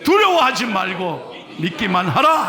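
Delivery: firm, emphatic proclamation; read with full force. Shown as a demonstration. Pastor reading the verse aloud with full force. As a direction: declare it with all your strength. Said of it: "저는 성경을 온 힘을 다해서 읽는데".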